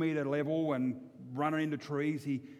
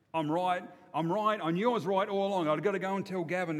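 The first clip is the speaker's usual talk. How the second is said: triumphant; 4 semitones higher, 5 dB louder than usual. Acted. Davo triumphant after meal.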